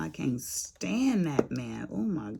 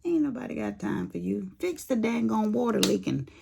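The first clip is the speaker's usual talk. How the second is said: grumpy husband; 5 semitones higher than usual. Retold or imitated. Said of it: "He's like".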